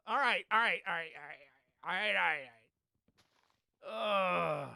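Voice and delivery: very slow, drawn-out all rights; resigned whimper. Real, not acted. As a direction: talk yourself down, near tears. Resigned after dying.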